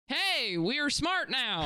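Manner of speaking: mock monkey voice. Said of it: "my character work is".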